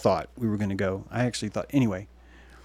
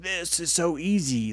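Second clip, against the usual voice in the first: slow put-on gloating voice; mock smug government; 4 semitones higher, slower than usual. Mocking the government as a smug schemer. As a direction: gloat it slowly. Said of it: "government's like".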